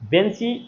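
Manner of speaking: বেঞ্চি with a lengthened final ই; teacher pointing up the last sound ই in বেঞ্চি; demonstrated pronunciation. Shown as a demonstration. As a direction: hold the closing "ee" of বেঞ্চি. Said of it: "একদম সবার শেষে উচ্চারণ করছেন".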